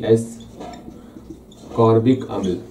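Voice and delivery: एस्कॉर्बिक अम्ल drawn out very slowly; slow, deliberate dictation of एस्कॉर्बिक अम्ल. Shown as a demonstration. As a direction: say it slowly while writing it on the board. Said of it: "यहाँ लिख देते हैं आपको हिंदी में भी".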